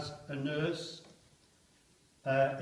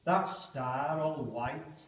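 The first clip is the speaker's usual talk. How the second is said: poem reading; slower than usual. Acted. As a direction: muse on the star before the attack. Poem recited aloud.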